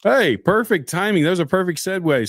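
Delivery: delighted, the joke landed perfectly; thrilled the joke set up the Russia story; excited. Real, not acted.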